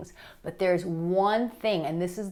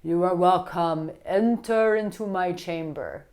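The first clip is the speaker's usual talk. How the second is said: mock creaking door; 2 semitones higher, 4 dB louder, slower than usual. Mock seductive door opening.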